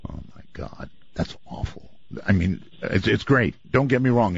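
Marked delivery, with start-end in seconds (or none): 0.1-1.9 hushed aghast. Real, not acted. Reacting to creepy recording.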